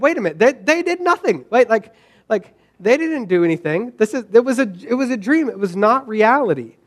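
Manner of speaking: acted-out baffled reasoning, pitch jumping up; retold self-correction. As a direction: protest to yourself as if arguing back. Talking himself out of dream anger.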